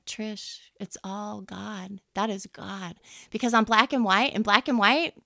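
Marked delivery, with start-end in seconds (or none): 0.0-3.0 quoting husband softly. Retold or imitated. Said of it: "looked at me and said".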